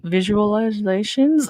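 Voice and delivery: slow, tentative, stretched-out word; slow questioning delivery; careful substitute wording. Pretend. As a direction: draw it out as if testing a euphemism. Searching for a polite euphemism.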